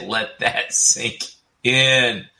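slow, deliberate let that sink in; mock weighty delivery; drawn-out quote. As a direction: draw each word out for effect. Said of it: "he said".

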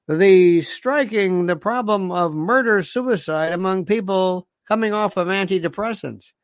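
mock network news read; lightly voiced newscaster announcing a report; TV news anchor. Anchor opens tonight's NBC News, mock newscast delivery.

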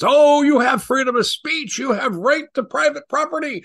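high mock bureaucrat voice; mocking European official. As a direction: sneer it like a smug Eurocrat. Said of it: "the Europeans are classic communitarians".

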